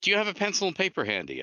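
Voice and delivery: caller's voice. Retold or imitated. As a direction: rush it, a bit high. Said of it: "And then he says".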